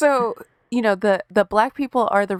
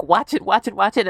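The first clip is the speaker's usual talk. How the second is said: louder, urgent chant, retold; retold urgency; 2 semitones higher, 3 dB louder than usual. Patient retelling TMZ in the waiting room, mock urgent. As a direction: act out being glued to the TV.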